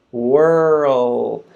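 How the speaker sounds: Whirl held long, tongue rising to L. Shown as a demonstration. Teacher building world step by step, drawn out. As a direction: stretch Whirl into the L. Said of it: "my tongue is going up for the L sound".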